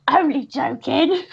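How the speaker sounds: slow, drawn-out imitation of false jollity; mock-sinister joking. Customer after an awkward silence, imitated sinister joking. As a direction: stretch it out as an unconvincing take-back. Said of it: "and it's really sinister".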